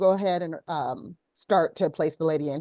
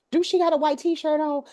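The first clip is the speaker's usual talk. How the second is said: imitating a little girl; 10 semitones higher, 3 dB louder than usual. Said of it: "she's like".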